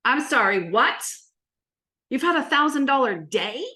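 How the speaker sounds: mock astonishment, rising at the end; retold disbelief. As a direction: act out a stunned double-take. Retold disbelief at client's news.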